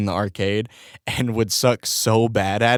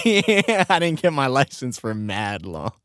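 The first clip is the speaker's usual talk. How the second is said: laughing; 4 semitones higher, slower than usual. Shown as a demonstration. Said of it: "laughs, repeats the line".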